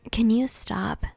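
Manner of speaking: sharp, irritated whisper; cranky. Acted. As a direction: snap it out, fed up. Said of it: "knowing you sound cranky".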